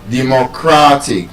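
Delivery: "Democratic" with CRA stressed; penultimate stress. Shown as a demonstration. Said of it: "second to the last syllable".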